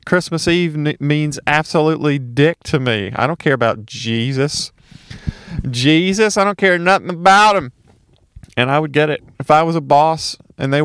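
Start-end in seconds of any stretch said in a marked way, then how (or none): 0.1-7.7 a lightly voiced worker, mock-irritated; half-hearted gruff worker rant; imagined worker's rant. Worker who wants the shift, mildly annoyed. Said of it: "some people are probably wanting to work".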